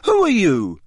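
a hint of a puzzled boy. A narrator's reading. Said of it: "said Ron".

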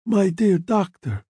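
a trace of Italian in the vowels; slight Italian accent. A narrator's reading. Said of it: "trace of an Italian accent".

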